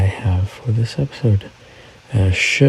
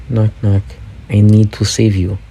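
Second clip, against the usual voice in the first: mock Putin. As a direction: voice an insistent visitor at the door. Joke voicing Putin at the door.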